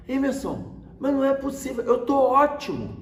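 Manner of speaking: high, protesting imitation of dad; complaining father. Father objecting to his son about admission, complaining. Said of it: "depois dele reclamar".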